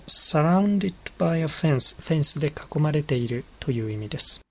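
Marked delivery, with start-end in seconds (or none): 0.1-2.0 each word drawn out slowly for the class; slow teacher repeat. Shown as a demonstration. Teacher slowly repeats the answer phrase for students, drawn out. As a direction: spell it out slowly so learners catch it.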